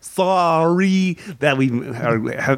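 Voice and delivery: hammed-up, stretched "sorry"; DeLong-style sorry. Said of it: "There's a little DeLong in his voice when he says sorry".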